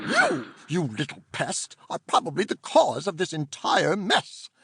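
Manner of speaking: prim, scolding auntie; stern aunt voice. Acted. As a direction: order them out at once.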